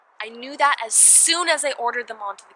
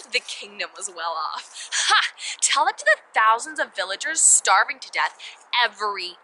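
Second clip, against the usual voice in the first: scornful laugh, then an indignant retort; bitter scorn; 3 dB louder than usual. Acted. Princess mocking the newspaper's claim about her kingdom, scornful. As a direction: throw the claim back with mounting indignation.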